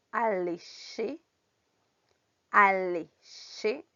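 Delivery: word by word, a long pause after each; isolated, drawn-out syllables, dictation style; pronunciation examples. Shown as a demonstration. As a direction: model each French word slowly for learners to repeat. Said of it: "ejemplos de con estas pronunciaciones".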